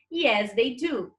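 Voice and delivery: slow, clear short answer; teacher slowly models the answer. Shown as a demonstration. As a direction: lay out each word for the class. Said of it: "perguntei com do, respondi com do".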